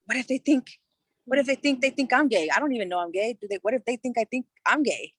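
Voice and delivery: high, anxious, spiralling worry; panicked inner voice. Retold or imitated. Teen frets to herself that her parents suspect, high and anxious. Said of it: "'Cause I was like".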